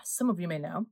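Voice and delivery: talking through a mouthful; words round a bite of fudge; chewing noisily. Real, not acted. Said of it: "excuse me eating while I'm talking".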